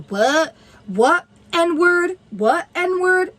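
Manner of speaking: mock someone's accent in a jeering questioning lilt; mocking imitation. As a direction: throw it back as a taunt. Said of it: "mocking the way that I'm talking".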